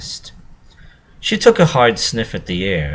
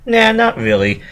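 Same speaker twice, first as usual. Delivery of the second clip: much higher, louder casual nah; pony pretending the smell is nothing; feigned indifference; 5 dB louder than usual. A narrator's reading. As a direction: fake a careless shrug. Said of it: "acting as though it wasn't bothering her".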